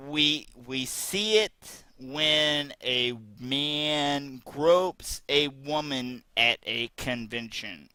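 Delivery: slow, drawn-out mocking read; mocking quote voice. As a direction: drag out her words to mock them. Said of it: "This is an exact quote".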